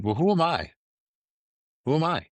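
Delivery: a touch of teary remorse; imitating emotional regret.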